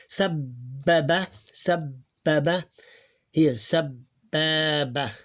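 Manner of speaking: sabbaba slowly, doubled b held; slow demo. Shown as a demonstration. Teacher slowly models sabbaba for the class. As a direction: stretch sabbaba, hold the bb. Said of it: "the ba doesn't sound like ba".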